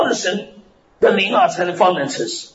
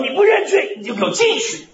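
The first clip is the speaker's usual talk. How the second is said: stern warning, higher on the first words; threatening order; 5 semitones higher than usual. Retold or imitated. Leader warns the congregation to confess. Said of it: "会长说：".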